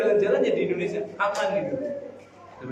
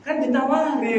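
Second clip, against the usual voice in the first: higher-pitched mock indignation; retold angry protest; 6 semitones higher than usual. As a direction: imitate someone mildly cross, voice pitched up. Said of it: "Dia marah-marah seperti itu ya".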